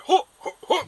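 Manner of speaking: high, loud "ho" hoots; short loud hoots, pitched well up; fisherman's straining calls. Acted. Game master voicing the fisherman heard nearby, straining calls. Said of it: "you hear, like".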